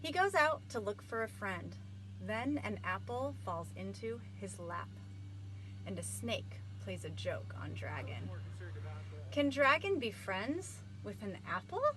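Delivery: bright, lively storytime reading; blurb read aloud. Acted. Librarian reading the back cover to kids, lively. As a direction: sell the book to young listeners.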